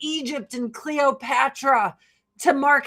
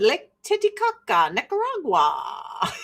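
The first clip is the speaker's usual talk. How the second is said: Beavis impression. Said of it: "Beavis said".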